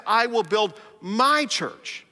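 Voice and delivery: slow, with weight on my; I will build my church, leaning on my; quoting Jesus with stress on my; emphasis on my. Acted. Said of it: "an emphasis on the word my".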